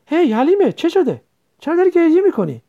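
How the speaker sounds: suddenly notice she is crying; alarmed concern. Acted. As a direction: brother alarmed at his sister's tears. Brother sees sister crying.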